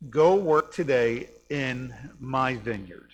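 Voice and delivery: slow, loud, spaced-out command; father's command. Acted. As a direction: quote the order firmly, stretching each word. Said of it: "He says".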